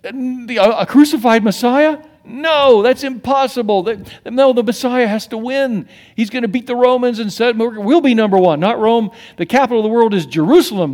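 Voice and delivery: indignant scoffer; scoffing disbelief. Retold or imitated. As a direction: act out the scoffers' protest. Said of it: "the Jews are going".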